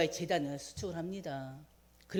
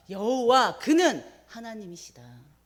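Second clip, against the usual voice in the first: shouting praise; 3 semitones higher, 7 dB louder than usual. Retold or imitated. People falling down and crying out, a loud proclamation. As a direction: call out with all the people, full voice. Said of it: "막 크게 외칩니다".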